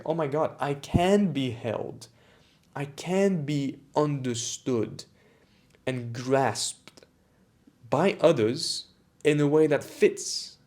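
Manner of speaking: awed relief. Retold or imitated. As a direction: let the relief swell slowly as each line lands. Retold moment of being understood.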